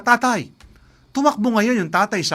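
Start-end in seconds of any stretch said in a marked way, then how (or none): 0.0-0.5 loud high call for dad; child's shout. Acted. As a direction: yell for father across the field. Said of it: "sumigaw yung bata".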